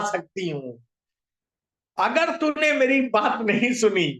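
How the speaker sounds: understated, building warning; angry threat. Acted. Bird threatening to eat the ant, mildly angry. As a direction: start measured, then press the threat with mild anger. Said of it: "तो उसको आया गुस्सा".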